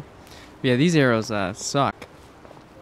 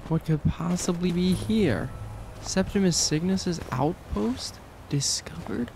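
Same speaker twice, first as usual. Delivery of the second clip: mock dramatic; 5 semitones higher, 3 dB quieter, slower than usual. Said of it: "I don't know why I'm talking like that".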